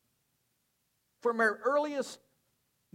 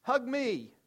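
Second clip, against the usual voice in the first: put-on much higher, eager child's voice; little granddaughter; 9 semitones higher, 4 dB louder than usual. Three-year-old Addie begging her grandfather for a hug, high voice. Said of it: "she's like".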